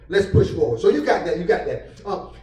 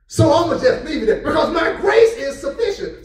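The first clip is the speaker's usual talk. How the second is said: high, raised, pleased pronouncement; a hint of God's voice; 6 semitones higher than usual. God looking at Paul's thorn, raised and pleased. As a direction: announce it like a pleased king. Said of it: "God said".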